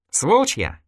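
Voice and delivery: showing off a little. Acted. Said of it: "слегка даже рисуясь".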